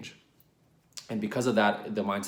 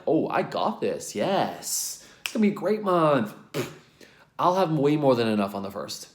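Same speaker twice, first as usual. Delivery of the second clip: mock confident; 4 semitones higher than usual. Imagined confident self talk.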